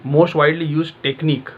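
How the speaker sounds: slow, drawn out; deliberate dictation pace; slow, spelled-out example question. Shown as a demonstration. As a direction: say it slowly, like a quiz question. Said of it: "आप इस तरीके से सोचते हो ना".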